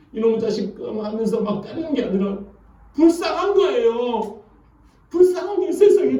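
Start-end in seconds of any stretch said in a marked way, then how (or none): 2.9-6.2 pitying exclamation. Acted. Preacher pitying the limping Jacob, high. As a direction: rise up high feeling sorry. Pity of brother Esau.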